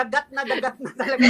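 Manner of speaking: laughing through fast words; gushing with laughter. Real, not acted. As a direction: giggle the words out in a rush. Host gushing about missing beach.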